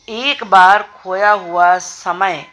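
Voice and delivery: slowly, stressing बार in एक बार खोया हुआ समय; slow example reading. Shown as a demonstration. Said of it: "अब इसमें समय की विशेषता क्या है?". (धीमे, बार पर ज़ोर देकर)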